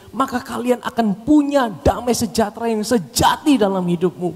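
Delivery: high, driving preacher's voice; impassioned preaching. Acted. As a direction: preach it as Jesus' own urgent appeal. Preaches in the voice of Jesus.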